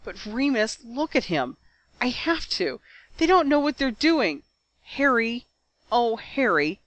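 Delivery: high, tearful pleading; voice full of tears. A narrator's reading. Ginny begging Lupin to let her go, tearful. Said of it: "her voice full of tears".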